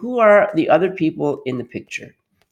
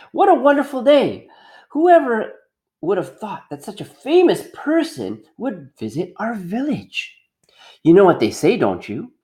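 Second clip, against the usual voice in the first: higher, excited society lady; gushing mayor's wife; 4 semitones higher than usual. Acted. Mayor's wife thrilled to the crowd, higher and gushing. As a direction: gush like a proud hostess.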